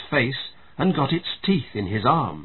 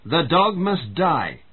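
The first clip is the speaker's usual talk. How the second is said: slow, firm and resolute, a little higher; 5 semitones higher, slower than usual. Acted. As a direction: lay it down slowly as a final verdict. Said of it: "in her firm voice".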